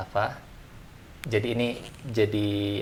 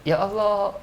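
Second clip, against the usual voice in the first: much higher, drawn-out sigh of protest; mock complaining sigh; 10 semitones higher, 3 dB louder, slower than usual. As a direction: sigh it out like a grumbler. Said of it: "Tapi kalau". (keluhan kecil yang dibuat-buat, nada tinggi)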